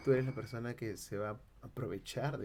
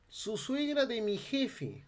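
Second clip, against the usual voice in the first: Andean Spanish demo; 11 semitones higher, much slower than usual. Shown as a demonstration. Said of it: "castellano andino y amazónico".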